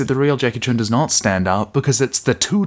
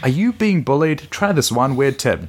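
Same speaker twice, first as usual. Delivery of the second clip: bright, peppy pitchman voice; chipper 1950s ad; 5 semitones higher than usual. Pretend. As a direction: sell it like an old TV ad. Parody self-help ad pitch.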